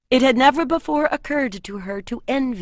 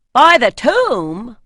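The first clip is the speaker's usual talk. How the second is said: swearing warrior; 4 semitones higher, 11 dB louder, slower than usual. A narrator's reading. Guard swears by tombs.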